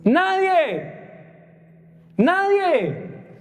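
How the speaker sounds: preacher proclaiming to the congregation; emphatic proclamation. Real, not acted. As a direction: hammer the answer home.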